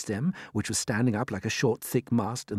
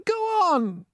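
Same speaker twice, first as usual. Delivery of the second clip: frantic urging; 5 dB louder than usual. Acted. Creatures urging James on.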